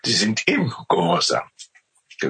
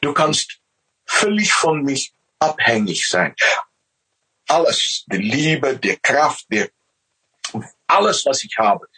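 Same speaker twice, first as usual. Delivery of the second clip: lightly raised, loving voice of God; 4 semitones higher than usual. Retold or imitated. God telling man he gives all, lightly raised voice. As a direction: speak as God offering everything. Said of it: "Er sagt".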